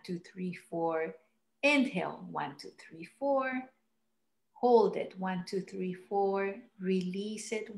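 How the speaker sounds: soft counting, breaths held between; guided breathing count. Shown as a demonstration. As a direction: count the breaths calmly and evenly. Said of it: "show you how it is done".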